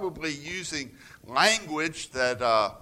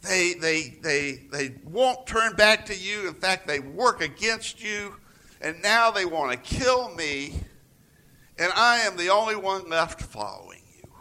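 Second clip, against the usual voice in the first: higher, louder complaining rant; letting loose; 6 semitones higher, 5 dB louder than usual. Retold or imitated. Elijah venting angrily at God, higher and louder. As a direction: pour out the grievance in one burst. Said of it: "Elijah just lets loose".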